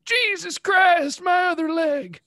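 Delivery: high, slow shout of pain. Acted. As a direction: yell it as he gets shot. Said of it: "hits Jebediah".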